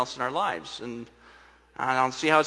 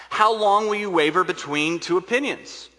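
raised, louder, demanding question; public challenge; 5 semitones higher, 5 dB louder than usual. Acted. Elijah confronts the people of Israel on Mount Carmel, challenging. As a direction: put it to a whole crowd, higher and louder.

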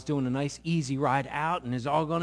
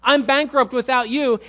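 high, loud, pleading outcry; a loud, high plea to God; desperate cry to God; 8 semitones higher, 8 dB louder than usual. Acted. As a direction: cry out that you're done. Pastor voicing prayer of surrender.

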